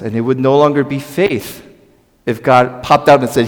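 ordinary delivery

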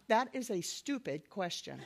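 laughing retort. Retold or imitated. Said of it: "I literally said out loud".

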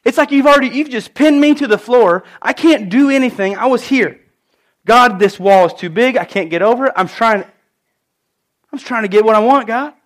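pleading against a wall too big; pleading prayer. Retold or imitated. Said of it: "I said, "God".

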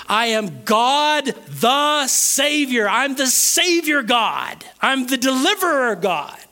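slow, high-pitched declaration of God; emphatic preaching. Acted. Preacher declaring God as Savior to the congregation, emphatic. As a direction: proclaim it slowly, stretching the key words.

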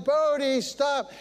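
mock yell for the dog to stop; wife yelling.

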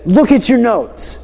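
retold teacher's firm reminder; mildly irritated. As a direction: press the class slowly, a little exasperated. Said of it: "I'm getting a little irritated now".

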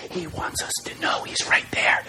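soft, intimate whisper; hushed, voiceless reassurance. Shown as a demonstration. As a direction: whisper it as if right beside them. Demonstrating God whispering close by.

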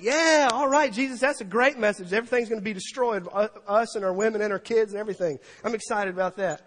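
high, loud cheer that settles down; mock excitement. Preacher voicing the multitude hearing of destruction, mock excitement. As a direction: fake enthusiasm for terrible news. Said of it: "was excited about him after this".

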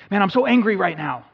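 mock frustration; mock angry self. Inner dialogue, angry self.

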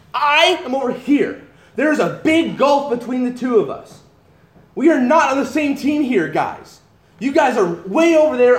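emphatic paraphrase. Acted. Jesus voiced by pastor, telling the crowd off emphatically. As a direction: drive home the gulf between us.

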